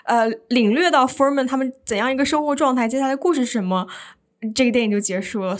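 mildly exasperated outburst, easing at the end; retold agitation. Moviegoer frustrated the film ended so soon, worked-up retold complaint. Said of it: "当时我就百爪挠心，我就不行了".

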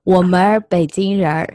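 我们儿北京人儿 with 儿 added after 们 and 人; Beijing erhua. Shown as a demonstration. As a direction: curl the tongue on each 儿 in 我们儿北京人儿. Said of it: "用那个北京话说 “我们北京人".

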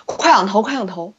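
lightly imitating a Northeastern coach's accent; a hint of a Dongbei coach urging; northeastern Chinese accent. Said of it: "你怎么一口东北腔".

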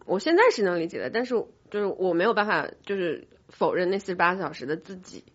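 normal talking voice

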